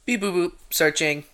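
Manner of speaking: beeping robotic phone assistant; chirpy voice of a phone. Pretend. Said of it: "I'm Dane's phone".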